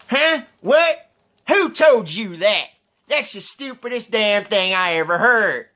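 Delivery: high, startled hick voice; redneck impression. Imitating redneck hearing a rumor, baffled. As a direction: play a baffled good old boy. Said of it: "he kinda sounded like this".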